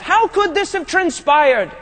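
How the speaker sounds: beside himself. Retold or imitated. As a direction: ask it like a man beside himself. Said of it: "He's beside himself".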